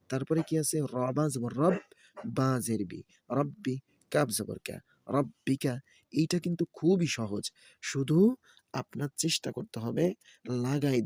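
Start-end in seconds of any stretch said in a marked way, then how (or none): 0.9-5.7 rhythmic letter-by-letter chanting; Quran-primer teacher's recitation; spelling drill recitation. Shown as a demonstration. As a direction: spell each syllable, then blend them. Spells out Arabic syllables for learners.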